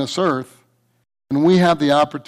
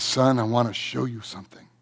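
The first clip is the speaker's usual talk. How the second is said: softer, lower fatherly voice; hushed father; 5 semitones lower, 8 dB quieter than usual. Retold or imitated. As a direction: confide quietly to the son. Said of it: "and he says".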